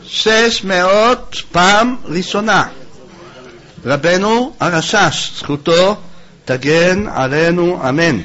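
very slow, drawn-out proclamation; auctioneer's call. Real, not acted. Rabbi calls six hundred going once and blesses, drawn-out auction call. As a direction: stretch each phrase out to the congregation.

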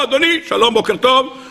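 a high-pitched greeting from a frog; hint of a talking frog. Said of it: "הצפרדע מדבר".

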